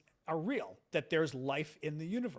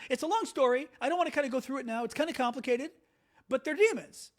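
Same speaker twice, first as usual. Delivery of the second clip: JD Vance; 7 semitones higher, 5 dB louder than usual. Retold or imitated. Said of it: "He goes".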